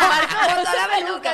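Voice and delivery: retold yell. Retold shouted line.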